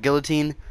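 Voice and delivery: guillotine, opening on "gil"; rejected pronunciation. Shown as a demonstration. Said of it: "I don't say it like".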